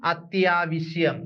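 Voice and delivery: അത്യാവശ്യം said slowly and falling, every syllable clear; slow careful pronunciation. Shown as a demonstration. Teacher repeating the word slowly for students. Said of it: "അടുത്തതിലേക്ക് നോക്കാം".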